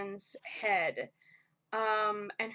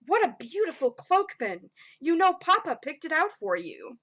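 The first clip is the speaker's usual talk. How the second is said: higher, admiring parental voice; lightly voiced doting god; 4 semitones higher, 5 dB louder than usual. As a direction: gently gush over a gift.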